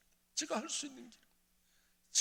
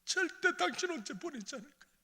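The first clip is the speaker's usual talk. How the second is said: much higher, crying 절대 당신 언제 보내지 않을 거야; tearful vow; 12 semitones higher than usual. Retold or imitated. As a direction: cry out the promise to his wife. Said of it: "여보". (아내에게 울며 하는 맹세)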